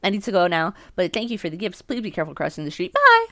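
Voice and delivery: put-on old woman voice. Reading old woman's farewell.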